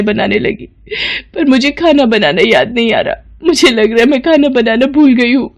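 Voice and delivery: acted weepy apology; distressed, whimpering admission of fault; tearful confession. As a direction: plead as if crying. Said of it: "Pinky फूट फूट कर रोने लगती है".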